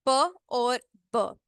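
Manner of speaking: slow, lips shut then popped on प and ब; slow plosive demo. Shown as a demonstration. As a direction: release प और ब with a burst. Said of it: "इनको bilabial plosives कहा जाता है".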